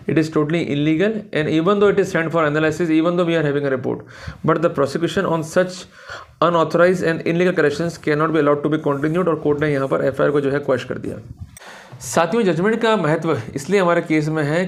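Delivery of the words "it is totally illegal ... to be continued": reads the ruling very slowly, word by word; slow dictation. Shown as a demonstration. Lawyer reading the court's ruling to colleagues, slow and deliberate. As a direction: spell out the court's words slowly for notes.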